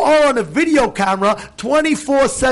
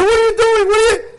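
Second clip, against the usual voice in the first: retold angry yell; 11 semitones higher than usual. Driver yelling at the man after the car crash, furious. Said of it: "I would never have screamed like that".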